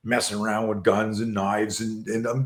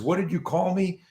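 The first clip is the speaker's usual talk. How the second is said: higher-pitched mock challenge; acted confrontation; 6 semitones higher than usual. Bully stands up to the swearing boy, mildly confrontational. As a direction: imitate an affronted bully, pitched up.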